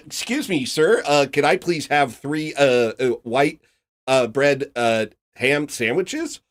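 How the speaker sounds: high, hesitant put-on voice with many uhs; a timid customer asks haltingly for sandwiches; mock timid white guy. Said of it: "white people be walking like this".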